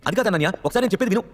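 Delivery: chasing after her, begging to be heard; urgent plea. A narrator's reading. Pleading after her, higher.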